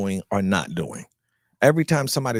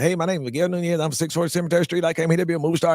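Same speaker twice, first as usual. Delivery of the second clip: put-on light North Carolina country accent, raised and eager; country boy accent; 6 semitones higher, faster than usual. Walking into the agent's office to introduce himself, in a mild country accent. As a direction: farm kid announcing his dream in a hint of a country accent. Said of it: "I talked like this when I first got there".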